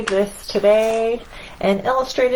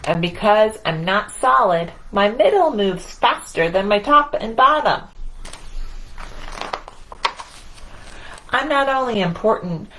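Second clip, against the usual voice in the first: lively picture-book read-aloud as the boastful sun; reading to children. A narrator's reading. Reader voicing the proud sun for children, playful storytelling. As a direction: read it to the kids, playing up the sun's swagger.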